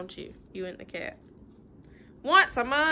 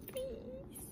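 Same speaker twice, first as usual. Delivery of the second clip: begging pigeon; 14 semitones higher, 15 dB quieter than usual. Acted. Pigeon begging in read-aloud.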